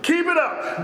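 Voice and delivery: God warning an enemy, as a preacher voices it. Retold or imitated. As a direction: dare them to keep going. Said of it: "God tells the enemy".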